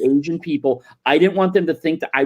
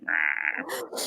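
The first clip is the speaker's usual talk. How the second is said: flat dismissal; 10 semitones lower, 12 dB quieter than usual. Retold or imitated. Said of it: "just like".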